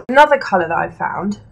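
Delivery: breathless, short of air; speaking while out of breath. Real, not acted. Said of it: "actually out of breath".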